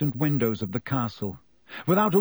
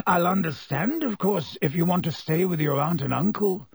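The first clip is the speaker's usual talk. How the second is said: higher-pitched, careful Black; lightly voiced Black, tentative; 4 semitones higher than usual. Black letting Harry off the hook, tentative. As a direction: offer a way out, tentatively.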